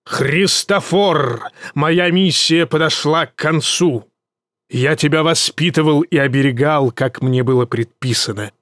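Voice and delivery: lightly echoing solemn father; a hint of an otherworldly booming voice; гулкий голос. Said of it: "вскричал он вдруг гулким голосом". (слегка гулкий торжественный голос)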